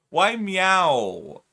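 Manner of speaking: high, loud disbelief; incredulous. Real, not acted. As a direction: protest it, outraged. Protesting the meow suggestion.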